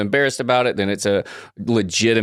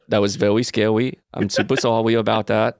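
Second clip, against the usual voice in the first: put-on baby talk; 2 semitones lower than usual. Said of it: "You don't have to talk like that".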